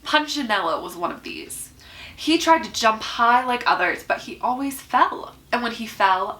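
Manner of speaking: measured picture-book read-aloud with lifted key words; story narration. A narrator's reading. Reader telling children about small wooden people, storybook narration. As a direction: read it expressively, pausing between phrases.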